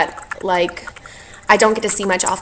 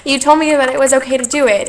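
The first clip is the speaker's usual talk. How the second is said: choked up; 5 semitones higher, 3 dB louder than usual. Real, not acted. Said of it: "I'm gonna get emotional".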